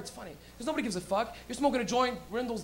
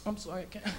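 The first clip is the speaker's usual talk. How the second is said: wife; 7 dB quieter than usual. Retold or imitated. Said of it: "she's like".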